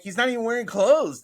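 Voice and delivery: high, loud protest; retold incredulity. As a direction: imitate a wife's baffled objection. Wife objecting in retold exchange.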